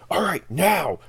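shouted studio cue; producer's cue shout. Retold or imitated. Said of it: "the producer going".

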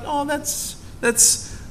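tender sympathy. Retold or imitated. Pastor voicing women hearing a crying baby, soft high coo. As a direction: coo softly like a caring mother. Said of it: "they're like".

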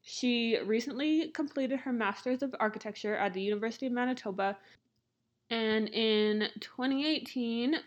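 talking around a mouth retainer; slight lisp, plastic in the mouth; lisp from jaw surgery. Real, not acted. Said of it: "so if it sounds like I have a lisp".

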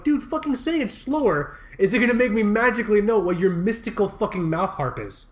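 high, mock-exasperated rant; hammed-up annoyance. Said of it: "I'm like".

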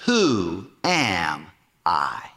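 hushed, doubting Moses; timid Moses. Retold or imitated. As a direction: shrink into the question.

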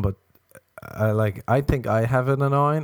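ordinary talk

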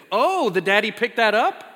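put-on a light childlike commentator voice, rising; mock announcer toddler. Daughter narrating dad's every move like a commentator. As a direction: play a tiny sports announcer. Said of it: "like having a sports announcer".

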